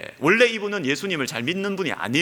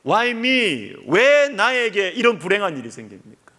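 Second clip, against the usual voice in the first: bitter why me lament, raised; resentful complaint; 4 semitones higher, slower than usual. Retold or imitated. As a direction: cry out the grievance at God. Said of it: "하나님 앞에 막 원망을 하는 것입니다".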